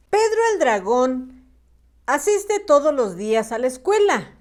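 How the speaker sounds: storybook reading with lifted intonation and pauses; measured children's story narration. A narrator's reading. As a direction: read it out phrase by phrase for young pupils.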